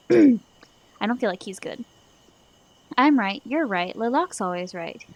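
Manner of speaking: loud, cracked madman voice; a hint of a crazed hermit; mad shaman voice. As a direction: play the unhinged old shaman talking himself up. Player voicing mad Lalak.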